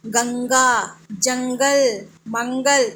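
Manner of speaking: गंगा, जंगल, मंगल said singly with a held nasal hum; deliberate, drawn-out nasal ं; nasal anusvara. Shown as a demonstration. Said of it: "नाक के पास आपको कुछ महसूस होगा".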